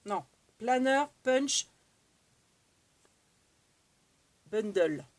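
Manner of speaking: "Planner Punch Bundle" slowly, in a hesitant French-accented English; careful English name. Real, not acted. Vlogger unsure of English product name, careful slow pronunciation. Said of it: "Je sais pas si je prononce bien".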